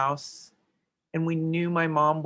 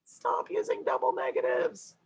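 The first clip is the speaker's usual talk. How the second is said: whisper. Shown as a demonstration. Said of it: "I wanna scream at them".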